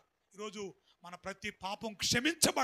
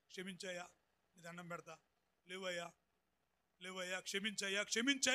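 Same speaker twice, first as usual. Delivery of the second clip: pleading; 4 semitones lower, 7 dB quieter than usual. Retold or imitated. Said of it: "అని ప్రాధేయపడ్డాడు".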